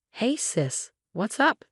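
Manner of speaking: light cheerful hello to her sister. A narrator's reading. Sister cheerfully answers her sibling's call, mildly upbeat. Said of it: "sounding cheerful".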